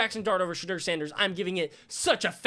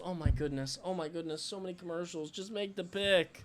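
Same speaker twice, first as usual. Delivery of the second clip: much softer, lower weary complaint; weary groan; 3 semitones lower, 10 dB quieter than usual. Real, not acted. Streamer enduring endless commercials, soft weary groan. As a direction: sigh it out, fed up.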